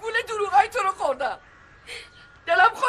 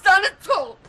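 crying anger; 2 semitones higher than usual. Acted.

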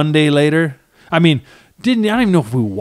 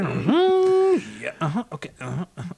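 mock eager agreeing; 5 semitones higher, 5 dB quieter than usual. Mimics himself on the phone eagerly.

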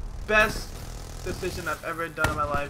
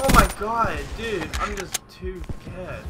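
drawn-out self-congratulation; showy self-praise; 5 dB louder, slower than usual. Real, not acted. Gamer gloating to himself after a kill, showy and drawn-out. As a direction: stretch it out, pleased with yourself. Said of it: "That was so gay how I said it".

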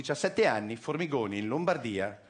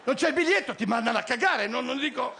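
exclaiming; 10 semitones higher, 4 dB louder than usual. Real, not acted. Heated rant punchline.

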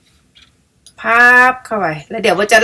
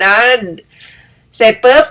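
ordinary delivery

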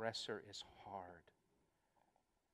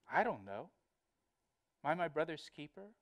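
cheeky, defiant acted retort; mock insolence, swinging up into a question; insolent; 3 dB quieter, faster than usual. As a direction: toss it off like a child talking back. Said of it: "speak to you like that".

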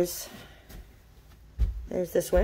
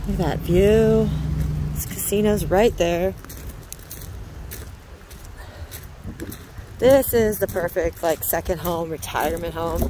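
shouting over wind. Real, not acted. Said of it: "The wind is really loud".

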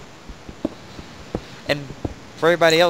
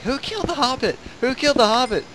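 imitating Wolf; 10 semitones higher than usual. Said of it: "Wolf's like".

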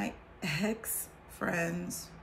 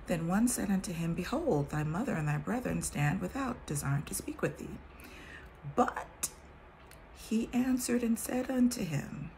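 measured King James reading voice; scripture reading. Acted. Reading the Bible to her viewers, solemn scripture voice.

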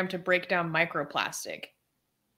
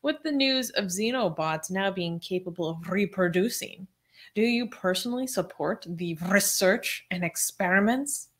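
mad scientist; 4 dB quieter than usual. Pretend. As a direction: read it like an evil lab genius. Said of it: "why are you speaking like a mad scientist".

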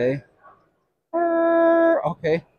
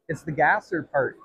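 laughing; 5 dB quieter than usual. Real, not acted. Laughing after buying the part.

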